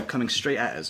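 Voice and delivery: usual speaking voice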